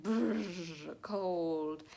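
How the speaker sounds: rolled "brrr" as if freezing; shivering brrr. Shown as a demonstration. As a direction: demonstrate being cold with a shivery trill. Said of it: "use onomatopoeia to kinda demonstrate".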